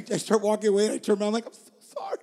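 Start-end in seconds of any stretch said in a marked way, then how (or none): 1.5-2.2 squeaky falsetto, soft and high; an exaggerated sing-song sorry; turning back to friends with a squeaky sorry; mock falsetto apology.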